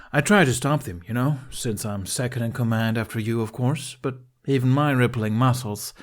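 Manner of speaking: put-on smug, boastful young braggart; cocky Snotlout. Snotlout bragging to Astrid about his muscles, smug. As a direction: show off to the girl.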